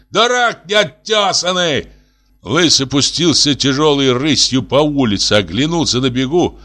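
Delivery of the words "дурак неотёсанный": high, slow yelled abuse; a high slow yelled insult; shouted insult. A narrator's reading. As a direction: hurl it after him.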